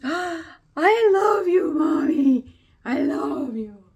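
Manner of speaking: high, loud, slow cooing cat voice; cat's voice. Pretend. Voicing the happy cat to Mommy, high and cooing.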